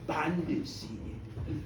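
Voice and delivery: sinister low reveal; low ominous bandits. A narrator's reading. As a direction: drop the voice low and dark for the bandits.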